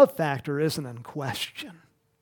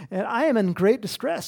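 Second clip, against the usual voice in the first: lightly voiced pleading Saul, a touch higher; voicing Saul; 4 semitones higher, 4 dB louder than usual. Preacher voicing Saul's plea to the witch, mild distress. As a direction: give Saul's complaint a hint of distress. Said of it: "Saul said".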